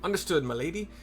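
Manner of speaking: lightly voiced grand inspector, pleased with himself; pompous detective. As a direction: play the proud sleuth, a little grand.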